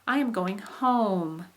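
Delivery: slow, rise on going, drop on home; falling statement tune. Shown as a demonstration. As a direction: pop up then slide down on home. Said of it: "There it is again".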